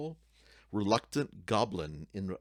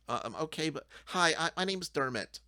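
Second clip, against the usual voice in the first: shy goblin; 8 semitones higher than usual. Acted. Goblin introduces himself.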